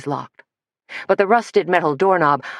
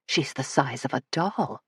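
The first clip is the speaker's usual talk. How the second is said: softer harsh hushed whisper; 3 semitones lower, 8 dB quieter than usual. Acted. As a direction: hiss it under your breath. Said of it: "Petra said in a harsh whisper".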